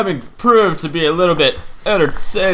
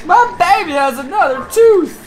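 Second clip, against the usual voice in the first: put-on excited baby talk; 3 dB louder, much slower than usual. Cooing over the game baby.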